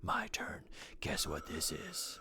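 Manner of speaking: raspy, breathy voice. Trying out a new voice for a character's line, breathy and raspy. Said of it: "Maybe more like something more breathy, raspy".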